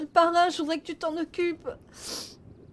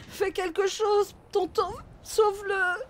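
slow tearful plea; 2 semitones higher, slower than usual. Acted. Begging uncle to save him.

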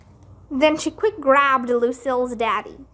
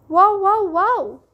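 loud interruption; 7 semitones higher, 4 dB louder than usual. Acted. Sheldon interrupting loudly.

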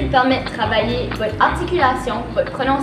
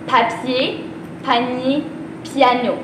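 slow tongue twister; 4 dB quieter, much slower than usual. Shown as a demonstration. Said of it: "on va le dire ensemble lentement".

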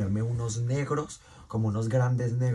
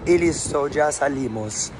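upbeat, higher and louder; excited; 4 semitones higher, 6 dB louder, slower than usual. Real, not acted. To viewers heading out, excited and louder. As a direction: bounce out the door. Cheerful exit call.

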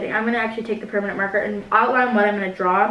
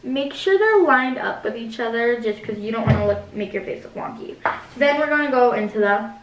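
beauty guru voice. Pretend. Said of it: "I keep talking like a beauty guru".

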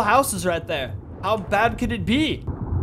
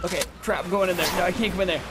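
ordinary talk, nothing marked

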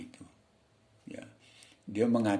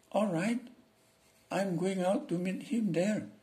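higher, slow servant answering the master; 10 semitones higher, slower than usual. Acted. Teacher reads the servant's lines to students, higher. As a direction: play the eager servant, pitched up.

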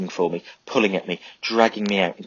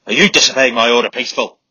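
loud, high demented rant; 4 semitones higher, 10 dB louder than usual. A narrator's reading. Sergeant ranting at Charlie, demented furious shout. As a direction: rant like a man gone mad. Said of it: "ranting like a man demented".

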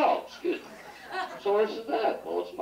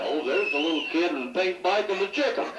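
imitating laughing teasing; 4 semitones higher, faster than usual. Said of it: "She used to laugh at me".

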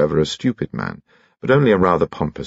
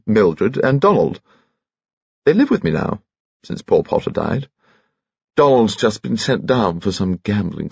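chatty, higher-pitched gentleman; high-pitched old lord; 4 semitones higher than usual. Acted. Lord telling painter about his relatives, high-pitched chatter. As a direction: confide family news in a piping voice.

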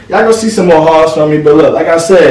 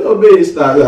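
laughing. Real, not acted. Laughing at the outfit.

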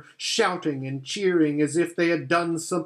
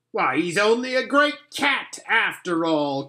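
higher, mocking creature voice; sneering creature; 5 semitones higher than usual. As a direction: scoff as a jeering follower. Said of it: "cried one".

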